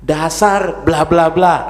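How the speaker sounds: loud, drawn-out imitation of an insult; mock scornful name-calling. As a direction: act out a slow, loud put-down. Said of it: "kalau dia mulai menghina".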